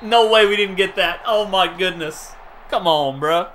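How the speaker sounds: loud, high, stretched-out cheer after the fumble; excited shout. Real, not acted. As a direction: yell it out in disbelief. Big defensive play in game.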